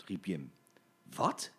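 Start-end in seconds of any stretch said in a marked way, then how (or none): 1.1-1.5 low, short gentlemen's cry; men's shocked what. Acted. Gentlemen shocked by the detour, low cry. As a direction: bark it as startled men. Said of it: "riepen alle meneren".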